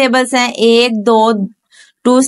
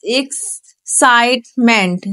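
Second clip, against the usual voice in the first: slow syllable demo; 2 semitones lower, much slower than usual. Shown as a demonstration. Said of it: "ए एक्स".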